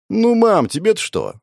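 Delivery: high mock kid's whine; whiny child. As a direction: whine like a teenager at mum. (шутливое детское нытьё)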